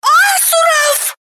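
a very high squealed question; shriek. A narrator's reading. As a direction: squeal it out in horror. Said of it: "взвизгнула Орна". (взвизгнула, очень высоко)

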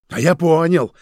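loud, high furious cry; enraged. A narrator's reading. Roman realizing the betrayal, enraged cry. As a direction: spit it out in rage. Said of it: "от бешенства дёргалась щека".

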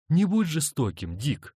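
lightly voiced wife protesting. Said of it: "запротестовала она".

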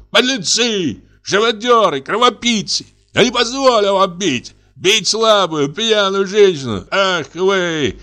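high, furious string of insults; indignant shout. Acted. Artist shaking his fist at the house, high furious shouting. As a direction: hurl each insult with rage. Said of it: "со злым, негодующим лицом ... крикнул".

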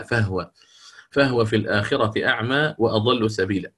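فهو said with the هاء held silent, fahw. Shown as a demonstration. Teacher showing students فهو with the هاء silent. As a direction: give فهو a sukun on the هاء. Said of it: "يقرأ بإسكان الهاء".

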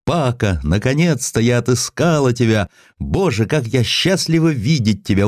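high, excited calling out; a woman overjoyed to find him; joyful cry. A narrator's reading. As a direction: cry out his name in joy. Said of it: "Ещё с порога она закричала".

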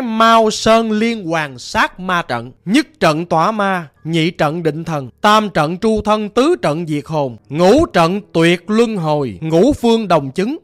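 slow, forceful spell chanting; incantation. A narrator's reading. Master Sáu recites the demon-slaying formation, slow ritual incantation. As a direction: intone each phrase of the spell slowly and firmly. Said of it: "ổng đọc ra".

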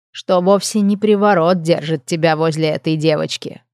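lightly voiced murmuring nymph; a hint of a silky, teasing nymph; purring nymph. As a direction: nymph cooing to the dean. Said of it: "прожурчал голосок Клаудивь".

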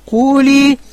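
firm instruction. Retold or imitated. Voicing the Prophet's instruction.

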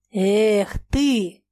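sighed out with a heavy breath; sighing. A narrator's reading. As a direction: let it out on a weary sigh. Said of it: "вздохнула Саша".

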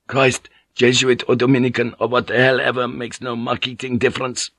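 a touch of impatient swearing sailor; irritated sailor. Acted. Irritated sailor Vink in story.

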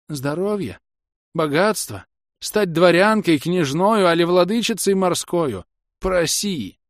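high, loud witch's enticement; tempting witch. Acted. Witch tempting the old woman with riches, high urging.

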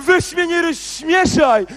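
slow laughing scoff; laughing scorn. Acted. Kpi z gum z nikotyną. (powolny szyderczy śmiech)

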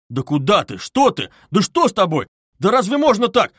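high, loud, agitated questions; flustered, rising outcry; bewildered, at a loss. A narrator's reading. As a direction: protest in helpless dismay. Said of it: "бормотал совсем потерявшийся Разумихин".

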